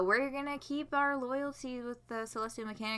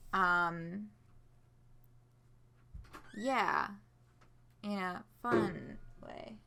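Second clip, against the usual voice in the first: ordinary talk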